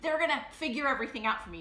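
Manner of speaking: rushed eager. Retold or imitated. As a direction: spill it all out in a rush. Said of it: "And I was like".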